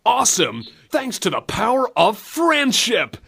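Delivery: Captain Planet acting. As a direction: ham it up like a nineties eco-hero. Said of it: "Captain Planet sort of acting".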